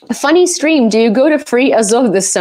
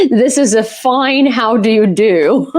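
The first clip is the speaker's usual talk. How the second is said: mock posh English. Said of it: "What's Cor Blimmy".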